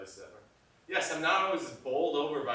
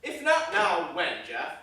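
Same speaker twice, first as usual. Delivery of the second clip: loud, raised-pitch challenge; heated, emphatic rhetorical question; heated argument; 8 dB louder than usual. Acted. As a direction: push back hard in an argument. Director argues for his shot.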